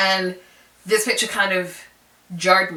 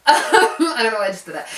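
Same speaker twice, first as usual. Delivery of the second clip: laughing; 4 semitones higher, 5 dB louder than usual. Real, not acted. Laughs at her own aside.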